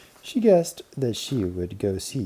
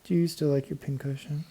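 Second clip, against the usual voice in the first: put-on delighted child; 6 semitones higher than usual. A narrator's reading. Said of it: "cried Babs".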